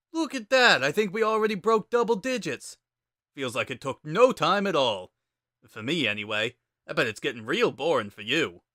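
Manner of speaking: smug, playful Sans. Acted. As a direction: needle the kid lightly. Sans voiced in narrated fanfic.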